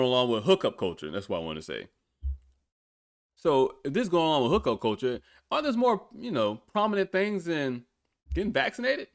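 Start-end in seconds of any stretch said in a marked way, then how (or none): 3.4-9.1 incredulous, getting worked up; exasperated rant. Real, not acted. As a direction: pitch climbs high as the frustration builds. Ranting about vaccine priorities.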